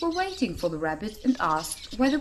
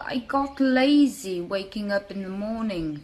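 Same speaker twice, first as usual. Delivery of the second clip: slow, drowsy lazy-bear excuse; sleepy sluggish bear shrugging it off. Acted. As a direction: drag it out like you just woke up.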